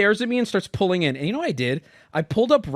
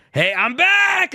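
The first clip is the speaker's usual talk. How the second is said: fake cheerful; 11 semitones higher, much slower than usual. Fuming but greets clerk brightly.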